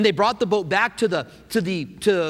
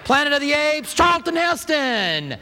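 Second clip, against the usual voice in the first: higher, mock-incredulous listing, drawn out on the name; exasperated disbelief; 7 semitones higher, slower than usual. Older folks to young people who don't know Heston, mock exasperation. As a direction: come on, how can you not know him. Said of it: "And we're like".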